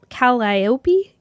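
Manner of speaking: Calliope tried as kal-EYE-oh-pee, questioning; tentative Calliope with a long EYE; sounding out. Shown as a demonstration. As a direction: Calliope stretched slowly, rising at the end. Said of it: "that's hard to say".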